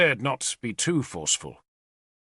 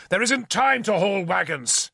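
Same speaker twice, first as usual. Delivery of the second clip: pitched high, urgent scolding; angry shout; 7 semitones higher than usual. A narrator's reading. Lord scolds captain for the wagons, angry. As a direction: cut him down for hauling wagons. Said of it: "I shouted at him".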